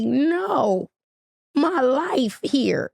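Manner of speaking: retold scream. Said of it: "so I scream like".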